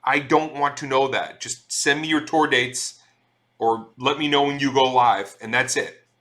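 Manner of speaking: playfully fed-up complaint; mock exasperation. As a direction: rant back at an oversharing mailing list. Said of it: "it's like".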